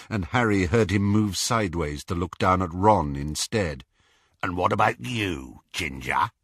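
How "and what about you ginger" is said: gloating werewolf. Acted. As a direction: savour every word like prey. Greyback taunts Ron.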